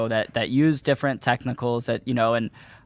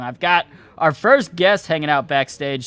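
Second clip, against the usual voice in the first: usual speaking voice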